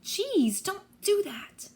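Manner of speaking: high, startled scolding; startled protest. A narrator's reading. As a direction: protest after a sudden fright. Startled hero scolds friend.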